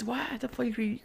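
whispered, unvoiced scolding. Nephew scolding uncle in a whisper. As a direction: hiss the question under breath. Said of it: "I'm like".

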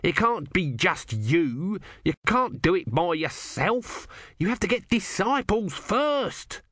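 very high pleading cry, slowed; high tortoise god yelling. Acted. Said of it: "Om yelled".

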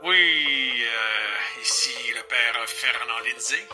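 put-on old man on the phone; tinny phone-line old man. Lindsay on the phone.

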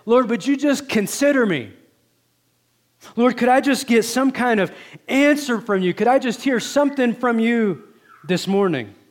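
lamenting prayer voice; pleading cry. Pretend. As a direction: beg the Lord to hear you. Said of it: "that's your cry this morning".

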